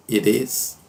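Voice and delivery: "It is" run together with the t as an R tap; linked "It is", tapped t; flapped t. Shown as a demonstration. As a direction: say "It is" like "ih-reez". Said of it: "Como se tivesse um R".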